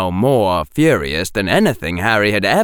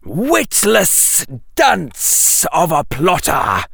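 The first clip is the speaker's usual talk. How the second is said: high, slow angry snake; angry hiss; 6 semitones higher, slower than usual. A narrator's reading. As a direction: spit the insult like a serpent. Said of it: "hissed the snake, so angrily".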